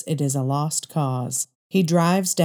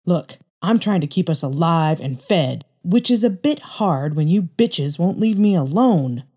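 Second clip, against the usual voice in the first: mild mock rant, a bit louder at the end; angry outburst; 3 dB louder than usual. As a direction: lash out at wife and daughter.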